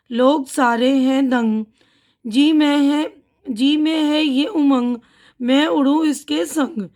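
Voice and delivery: put-on slow, sing-song reading of a children's poem; poem recitation. Shown as a demonstration. Reads the poem to the class. (बच्चों की नज़्म धीरे-धीरे पढ़ना)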